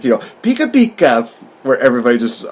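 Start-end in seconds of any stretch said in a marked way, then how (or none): 0.4-1.3 high, cute Pika Pika; Pikachu cry. Retold or imitated. Imitating Pikachu's classic cry to a friend, high and cute. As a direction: squeak Pika Pika like the little mouse. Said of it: "we just get the classic".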